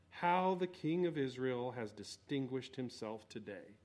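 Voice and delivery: a light sarcastic read, dropped low; a hint of scorn in the words; mild sarcasm. Michal mocking her husband at the door, mildly sarcastic. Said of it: "That's sarcasm".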